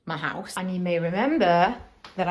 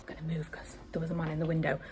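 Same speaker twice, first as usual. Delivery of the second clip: whispering; 7 dB quieter, faster than usual. Real, not acted. Hiding from a man at window.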